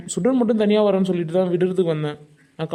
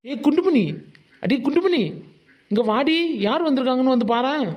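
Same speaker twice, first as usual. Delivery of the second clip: calling out; 5 semitones higher than usual. Acted. Husband calling wife from afar.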